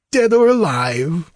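high, loud and gloating; exultant, pitched well up; gleeful. A narrator's reading. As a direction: crow it as a mad sorcerer would. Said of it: "laughed Peleus".

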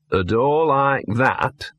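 drawn-out ominous dog warning; slow ominous dog voice. Acted. Dog warns Victor about the door, drawn out slow. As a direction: Gaspode lingering on each word.

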